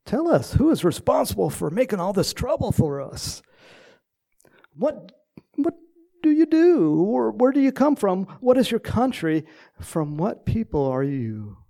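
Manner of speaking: high, loud, urgent questioning; alarmed sailors demanding. Retold or imitated. Heathen sailors interrogating Jonah, loud alarmed questions. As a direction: press him hard for answers in a storm. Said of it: "So they asked him".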